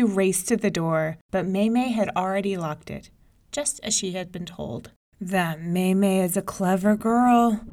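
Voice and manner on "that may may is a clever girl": grumbling tigress. Acted. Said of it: "grumbled the tigress".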